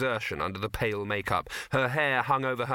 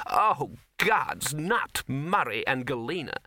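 mild dismayed groan; 3 semitones higher, slower than usual. Acted. The actress hearing about the trolls, mildly dismayed. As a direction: react with weary dismay.

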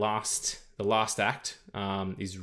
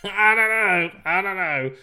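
high, loud, uneasy protest; high-pitched, half-laughing unease; squirming doubt; 8 semitones higher, 5 dB louder than usual. Real, not acted. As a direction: squeal your misgivings, easing slightly on the repeat. Squirming at teacher-student romance.

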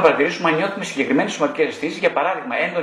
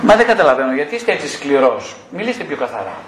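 complaining client; 4 dB louder than usual. Retold or imitated. Client protesting to therapist he is too harsh, loud complaint. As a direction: start loud and hurt, then settle.

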